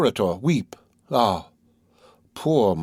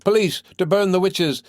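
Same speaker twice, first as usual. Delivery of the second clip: screaming; 6 semitones higher than usual. Acted. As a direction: cry out to the whole town.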